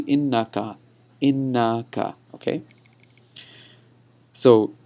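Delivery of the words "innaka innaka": "innaka" repeated with the double n held; corrected pronunciation. Shown as a demonstration. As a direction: model innaka carefully, long na in the middle. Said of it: "Or, or actually".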